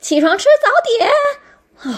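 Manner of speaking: shrill, very loud, booming high yell with voice cracking. Recounting someone bringing breakfast to the speaker's room: retelling a very loud wake-up call. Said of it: "他还超大声的说".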